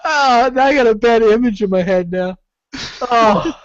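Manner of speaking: high cry of disgust; disgusted outcry. Real, not acted. Disgusted at the image.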